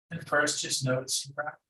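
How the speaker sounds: calm meditation guide with long pauses; unhurried, even meditation instruction; guided meditation. Acted. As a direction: guide them gently inward, leaving long silences.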